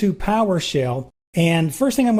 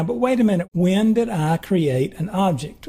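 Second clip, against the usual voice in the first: imagined viewer asking. Pretend. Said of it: "I can hear some of you asking the monitor".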